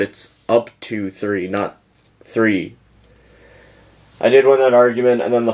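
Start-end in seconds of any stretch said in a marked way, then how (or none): 0.0-2.8 "up to" slowed and set apart, pause before the last "three"; stress on "up to". Retold or imitated. Retelling an argument with an online opponent, pointedly stressing "up to". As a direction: spell out "up to three", slowly, then "not three". Arguing over card wording.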